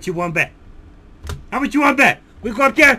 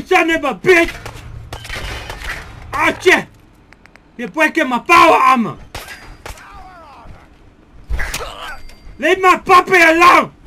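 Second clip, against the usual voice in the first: angry yelling; 5 semitones higher than usual. Real, not acted. Player defends his puppy from the monster, angry yells.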